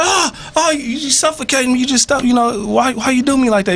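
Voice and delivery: high, hammed-up suffocating protest; distressed whining. Bird buried in shit complaining to the horse, distressed whining.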